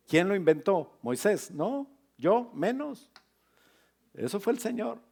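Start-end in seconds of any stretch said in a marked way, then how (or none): 1.5-5.0 mock protest. Playful denial from Moses' viewpoint.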